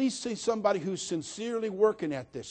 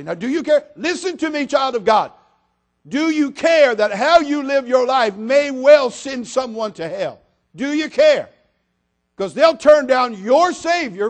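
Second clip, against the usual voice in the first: higher, louder, impassioned preaching; preaching at full force; 7 semitones higher, 10 dB louder than usual. Acted. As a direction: thunder it at the congregation.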